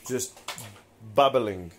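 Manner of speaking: mock apology. Real, not acted. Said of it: "I really apologize, guys".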